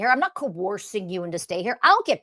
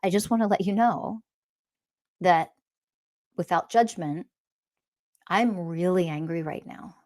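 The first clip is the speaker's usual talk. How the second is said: calm honest anger; 3 semitones lower than usual. Shown as a demonstration. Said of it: "you're like".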